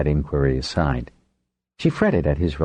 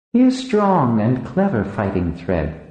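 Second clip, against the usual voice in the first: stout support; 9 semitones higher than usual. A narrator's reading. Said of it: "responded in stout support".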